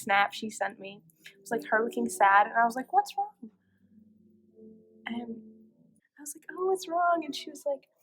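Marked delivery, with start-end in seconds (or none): 2.9-3.5 much higher, concerned question; retold concern. Retold worried question to sad girlfriend. 6.6-7.2 high-pitched concerned "oh"; retold concern. Repeats worried question to girlfriend.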